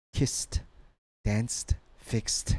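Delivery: "kissed, danced, fixed" each ending in a crisp t; final T sound. Shown as a demonstration. Teacher drilling a word list, final T endings.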